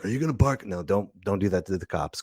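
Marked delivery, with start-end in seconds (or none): 0.0-0.7 softer, cool comeback; cool tough guy. Pretend. Mock reply to a cop who pulled you over, cool tough-guy line. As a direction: lightly play the cool movie tough guy. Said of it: "get in that cool form".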